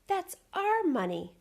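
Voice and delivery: high, loud, slow shout; angry shout. Acted. Bert shouts at the robber over the money. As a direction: yell it angrily.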